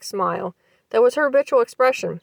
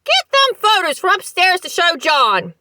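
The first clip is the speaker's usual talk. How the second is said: high, loud slow bellow; loud, slow, dragged-out order; bawled; 9 semitones higher, 4 dB louder than usual. A narrator's reading. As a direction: bawl it at a deaf wife. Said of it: "he bawled".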